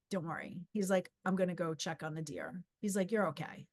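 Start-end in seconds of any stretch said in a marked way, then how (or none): 0.1-0.7 low, soft reassurance; hushed, unbothered comforting; super calm. Retold or imitated. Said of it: "He was super calm". 1.2-2.6 soft, low, matter-of-fact reassurance; gently imitated calm stranger; super calm. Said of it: "He was super calm". 3.1-3.7 soft, low comforting; gently imitated soothing; super calm. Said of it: "He was super calm".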